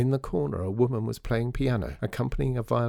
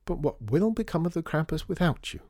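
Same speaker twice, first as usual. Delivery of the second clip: high, dismayed society lady; high-pitched heartbroken question; 8 semitones higher than usual. A narrator's reading. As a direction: plead in theatrical distress. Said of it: "Missus Mountjoy sounded heartbroken".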